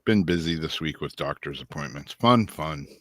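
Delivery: talking with a mouthful of wings; words round a bite of food; eating chicken wings. Real, not acted. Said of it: "I'm eating chicken wings right now".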